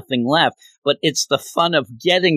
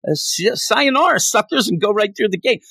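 dismissive Griever; 5 semitones higher than usual. Retold or imitated. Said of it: "I think she'd say".

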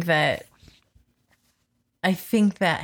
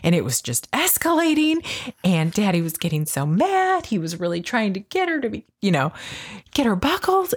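put-on higher, childlike retelling; imitating daughter; 5 semitones higher than usual. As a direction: lightly voice the upset daughter. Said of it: "And she's like".

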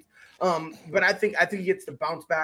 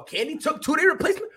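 rising, loud shout of praise; big burst of admiration, much louder and higher; cheering her on from the couch; excited cheer; 8 semitones higher, 6 dB louder than usual. Real, not acted. Cheering a short-notice fighter.

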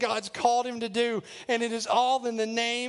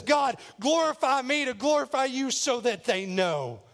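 mildly raised, pleading cry; 3 semitones higher than usual. Acted. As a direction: call out fervently to God. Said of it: "Jesus cries out and says".

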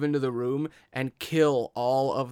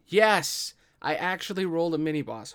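excited cheer; 4 semitones higher, 4 dB louder than usual. Real, not acted. Excited at dice roll.

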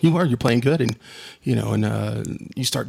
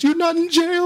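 high-pitched imitation of a little girl; put-on kid voice, pitched way up; young niece. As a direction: mimic a small child asking anxiously. Acting out his young niece on phone.

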